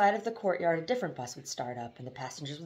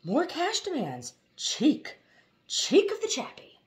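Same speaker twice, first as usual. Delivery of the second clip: shouting men; 11 semitones higher, slower than usual. A narrator's reading. The rude drivers shout at Rashid over cash. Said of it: "the shouting men shouted".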